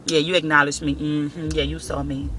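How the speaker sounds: low, soft smug murmur; imitating a man glad for attention, low and soft; mock satisfied man. Voicing attention-seeking men.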